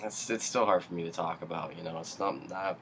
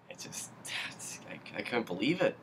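choked up; 3 semitones higher, 4 dB quieter than usual. Real, not acted. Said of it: "I get really emotional".

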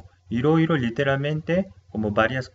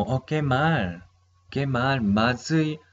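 dismayed oh no; 3 semitones higher, slower than usual. Retold or imitated. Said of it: "otro significado de mazui es como".

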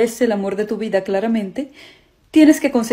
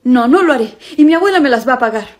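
determined anger; 4 dB louder than usual. Acted. Boyfriend vowing revenge on grandma.

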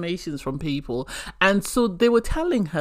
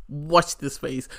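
slow knowing; 2 semitones lower, slower than usual. Shown as a demonstration.

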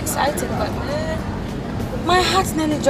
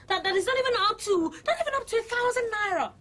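outraged half laugh; 5 semitones higher than usual. Acted. Protest breaks into a laughing cry.

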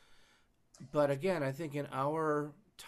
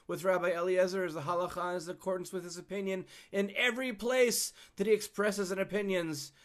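higher-pitched heavenly voice; 7 semitones higher than usual. Retold or imitated. Heaven rebukes the disputing rabbis, lightly voiced higher. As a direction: lightly act out a voice from above. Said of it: "And the voice from heaven".

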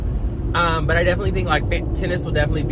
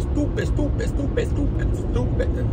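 squeaky high repeated stupid; 10 semitones higher than usual. Acted. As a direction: squeak the word over and over.

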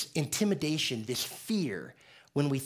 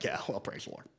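mock pastor modesty; 8 semitones lower, 10 dB quieter than usual. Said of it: "And he'd be like".

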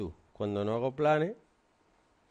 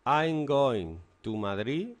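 very slow and a bit louder, teacher dictating; slow example sentence; 3 semitones higher, 4 dB louder, much slower than usual. Shown as a demonstration. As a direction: dictate "I'm going to Madrid to see the Pope" slowly so they can copy. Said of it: "Por ejemplo".

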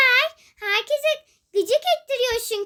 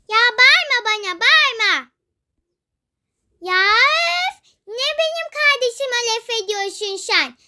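put-on louder, sharp child's yell; don't you yell at me, yelled louder; angry yell; 3 dB louder than usual. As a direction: shout her down. Girls quarrelling, one yells back.

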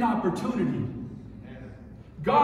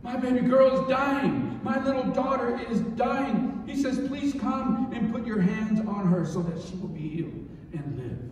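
acted father's plea, raised then fading; earnest pleading; 2 semitones higher than usual. Preacher as father begging Jesus to heal his daughter, earnest pleading. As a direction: start insistent, let the plea sink away. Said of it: "He was pleading with him".

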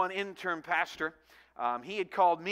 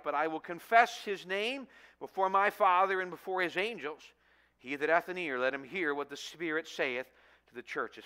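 measured, solemn Bible reading; scripture reading. Acted. Pastor reading Revelation to the congregation, solemn and measured.

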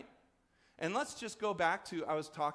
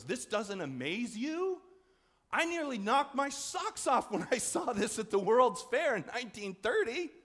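put-on higher, louder old man marvelling; 7 semitones higher, 5 dB louder than usual. Old man at a world fair scolding passersby, amazed and louder. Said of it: "and he goes".

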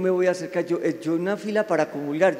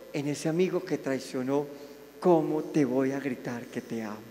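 pleading prayer; 4 dB louder than usual. Retold or imitated. Voicing a pleading prayer to God.

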